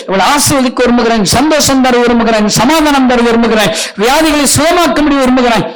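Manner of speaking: loud declaring preaching; full-force preaching. Acted. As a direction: proclaim each blessing to the crowd.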